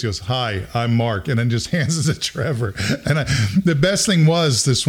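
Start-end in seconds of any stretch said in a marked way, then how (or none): 0.2-1.3 slow, put-on smiley introduction; drawn-out, polite smile in the voice; big smile. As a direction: imitate a shy kid smiling for the camera. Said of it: "with a big smile on the face".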